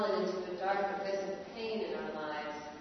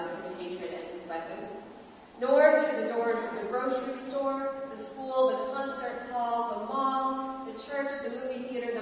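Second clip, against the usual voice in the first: building lament; 2 semitones higher, 3 dB louder than usual. Acted. Lament over violent hatred.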